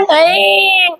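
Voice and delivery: drawn-out scolding "ai"; mock angry call. Shown as a demonstration. Teacher showing how angry people say it, mock anger. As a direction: stretch it into a mock cross warning. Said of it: "गुस्से में बोलते ना".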